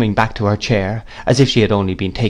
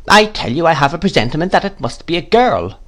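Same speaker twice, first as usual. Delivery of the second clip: high, emphatic great-aunt; insistent aunt; 7 semitones higher than usual. A narrator's reading. Miss Betsy insists it's a girl, adamant. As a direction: overrule the interruption firmly. Aunt overrides mother's interruption.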